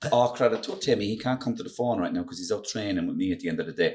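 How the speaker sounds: Roy Keane. Acted. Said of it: "Roy Keane, will you".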